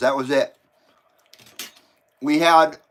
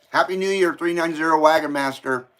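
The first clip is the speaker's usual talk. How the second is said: talking with a mouth full; words round a bite of food. Real, not acted. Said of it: "Sorry to talk with my mouth full".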